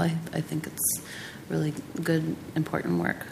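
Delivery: raspy, strained soft voice; hoarse voice fading out; losing voice. Real, not acted. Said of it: "I'm losing my voice today".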